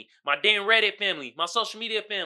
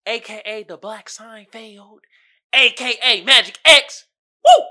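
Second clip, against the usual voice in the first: hype announcer; 10 dB louder than usual. Real, not acted. Announcing his own nicknames.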